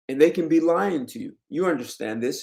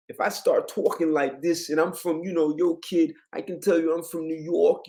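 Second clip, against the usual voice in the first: put-on New York accent, pitched higher; 4 semitones higher than usual. Shown as a demonstration. Showing listeners how a New Yorker sounds, New York accent. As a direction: talk like a New York kid. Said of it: "you hear the accent".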